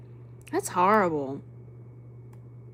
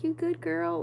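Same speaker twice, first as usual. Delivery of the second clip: higher-pitched check on a little one; checking on her; 7 semitones higher than usual. Retold or imitated. Aunt checking the baby monitor, tender and high. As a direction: gently ask a sleeping child, pitched up. Voices herself checking on sleeping niece.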